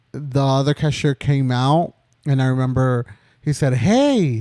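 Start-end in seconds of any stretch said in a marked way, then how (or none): 3.7-4.4 loud, higher-pitched "hey" yell; retold scream. Coworker walks out and sees a gun on the cashier, yelling. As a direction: imitate a sudden alarmed holler. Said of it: "He screamed like that".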